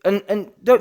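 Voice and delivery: usual speaking voice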